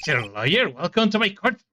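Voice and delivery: lightly Canadian judge voice; Canadian accent. Acted. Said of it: "He looks Canadian".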